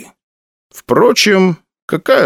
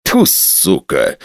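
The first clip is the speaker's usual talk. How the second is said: spitting out a midge; coughing, spitting curse; just swallowed a bug; 4 semitones lower, much slower than usual. Acted. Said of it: "закашлялся и сплюнул мошку".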